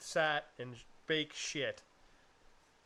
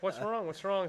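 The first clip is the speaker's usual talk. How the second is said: lightly voiced concern, pitched higher; mock concern, raised pitch; worried fiancée; 4 semitones higher than usual. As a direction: imitate a worried partner asking.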